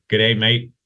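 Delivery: lightly put-on Australian accent. Host playfully greeting member from Brisbane, mild Australian accent. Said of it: "that's my best Australian accent".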